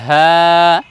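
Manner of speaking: হ্যাঁ breathed from the throat; throaty drawn-out হ্যাঁ. Shown as a demonstration. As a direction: model হ্যাঁ from the start of the throat. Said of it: "হলকের শুরু থেকে উচ্চারণ করব".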